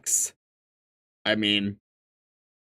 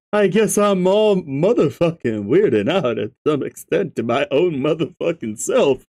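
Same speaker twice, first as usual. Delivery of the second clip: Gamzee voice. Acted. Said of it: "Gamzee's voice".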